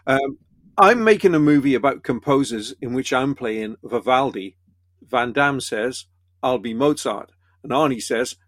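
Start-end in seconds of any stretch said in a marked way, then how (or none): 0.8-4.6 put-on Stallone's joke line in a Welsh accent. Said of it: "I'll do it in a Welsh accent". 6.4-7.3 put-on Welsh accent. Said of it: "I'll do it in a Welsh accent".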